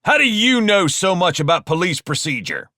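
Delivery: high, forceful angry demand; barked. Acted. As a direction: bark the question accusingly. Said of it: "barked Carl".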